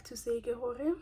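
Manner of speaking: whispering. Real, not acted. Whispered confession after eating.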